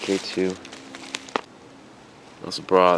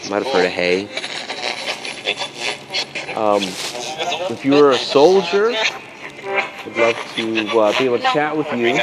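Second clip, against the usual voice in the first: calling out; 6 semitones higher than usual. Real, not acted. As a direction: project your voice into the dark woods. Calling out to spirits.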